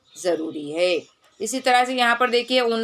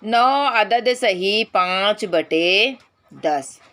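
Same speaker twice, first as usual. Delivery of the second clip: slow dictation; much slower than usual. Shown as a demonstration. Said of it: "ये देखिए".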